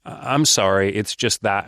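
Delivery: drawn-out reluctant yeah, then halting apology; acted reluctance with a stumbling start; hesitant. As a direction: imitate someone hesitating to say no. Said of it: "kinda hesitate a bit more".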